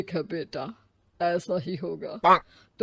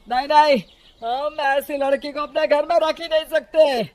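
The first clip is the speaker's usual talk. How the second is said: raised, firm refusal; stern refusal; 6 semitones higher, 4 dB louder than usual. Acted. In-law refusing to keep the daughter-in-law, stern and raised. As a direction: shut the door on her, higher and firm.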